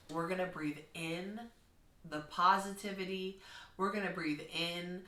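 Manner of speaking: a hint of a calm classroom guide; soothing kindergarten teacher voice. Shown as a demonstration. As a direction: reassure a five-year-old. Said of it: "I have to use that type of language with kindergartners".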